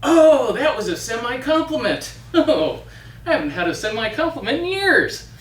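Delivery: the witch snapping then flattered; lightly voiced witch, flattered. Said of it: "And she said".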